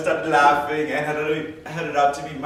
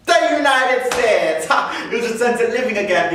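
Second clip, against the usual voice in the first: triumphant; 8 semitones higher, 5 dB louder than usual. Acted. Triumphant arrival in America.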